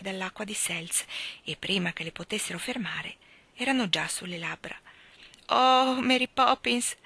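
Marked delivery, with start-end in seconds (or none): 5.5-6.9 a louder, higher eager cry to the nanny; boy impatiently crying out her name; impatient exclaim. A narrator's reading. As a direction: burst out impatiently, much higher. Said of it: "esclamò con impazienza".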